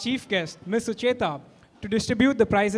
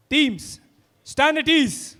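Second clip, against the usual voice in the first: drawn out parade commands; 6 semitones higher, slower than usual. Real, not acted.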